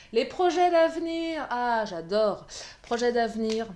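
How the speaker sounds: loud, high-pitched delighted announcement; ravie. Real, not acted. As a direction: burst out with delight at the card. Delighted at the card drawn. (ravie, s'exclame haut et fort)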